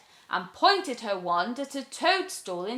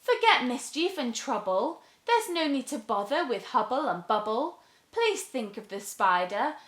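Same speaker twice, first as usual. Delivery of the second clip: put-on higher, earnest young girl; pleading girl; 5 semitones higher than usual. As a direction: coax her gently.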